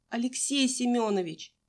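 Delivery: put-on girl calling to the coach for help. A narrator's reading. Fainting girl calls to coach.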